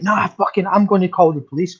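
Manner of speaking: high indignant threat; threatening. Retold or imitated. Dog owner threatening woman with the police, indignant. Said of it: "She went".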